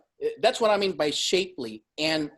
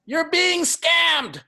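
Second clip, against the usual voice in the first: high, loud, slow declaration; mock-outraged verdict; emphatic exclamation; 12 semitones higher, 5 dB louder, much slower than usual. Real, not acted. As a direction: call it out like a scandal. Exclaiming opinion on Spartan races.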